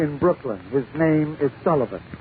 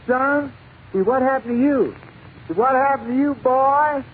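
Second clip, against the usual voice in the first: higher-pitched, lightly acted call to a wreck victim; lightly put-on questioning voice; hailing; 6 semitones higher than usual. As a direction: call out higher, addressing him as boy. Cop hailed in told joke.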